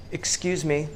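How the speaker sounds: put-on a touch of an overly polite Canadian accent, soft; gently apologetic Canadian accent knocking on a neighbour's door; polite Canadian accent, asking a noisy neighbour. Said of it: "in my polite Canadian accent".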